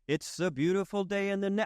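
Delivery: a light, high hint of a gentle kids' TV host; lightly voiced friendly TV neighbor; Mister Rogers. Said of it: "Let me put on my Mister Rogers sweater".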